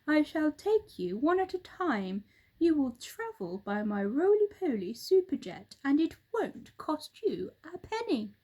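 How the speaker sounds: lightly voiced boastful bird; roly-poly bird. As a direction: pitch the superjet proudly.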